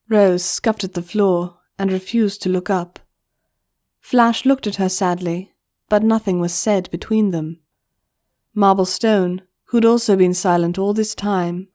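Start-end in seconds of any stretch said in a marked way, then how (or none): none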